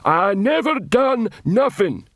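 high, slow troll protest; a dim troll pleading innocence; gruff troll voice. Acted. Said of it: "yelled Detritus".

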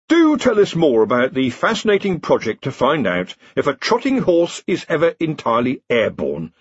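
a forced, bright change of subject; loudly and brightly. Acted. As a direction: chirp it out to cover the awkward silence. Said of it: "said Rincewind loudly and brightly".

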